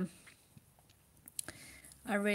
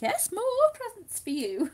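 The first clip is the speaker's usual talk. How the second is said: high, laughing "yes, more presents"; laughing reply; 13 semitones higher, 6 dB louder than usual. Retold or imitated. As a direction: answer the child through giggles. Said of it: "And I was like".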